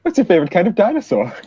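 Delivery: high, quick mock questioning; playful put-on interrogator voice; leaning-in interrogator. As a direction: press the silly question urgently. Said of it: "He leans in closer. He's like".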